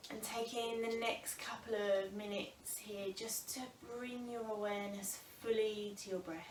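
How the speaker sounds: calm, unhurried breathing guidance with long pauses; yoga teacher settling a class into the breath; guided meditation. Real, not acted. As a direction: ease them gently into stillness, phrase by phrase. Leads seated breathing meditation.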